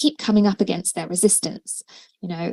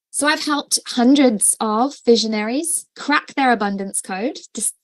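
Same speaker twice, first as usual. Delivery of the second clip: talking through hiccups; words broken by a hiccup; 3 semitones higher than usual. Real, not acted. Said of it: "excuse me, got the hiccups".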